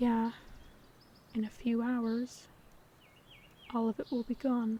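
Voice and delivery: quiet, softly spoken, low-key, understated delivery. Replying in a drama scene, a character speaks quietly.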